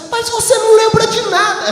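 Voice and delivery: high, loud, sing-song scolding as the wife; high sing-song mock reproach; mock wife complaining. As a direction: sing it like a nagging wife teasing her husband. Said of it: "Ela diz".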